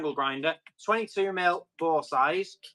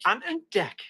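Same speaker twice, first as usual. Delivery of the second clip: lilting Geordie with big pitch swings; hammed-up Geordie patter; Geordie accent; 3 semitones higher than usual. Shown as a demonstration. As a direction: put on a drawn-out, friendly Geordie. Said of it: "favourite accent has got to be Geordie".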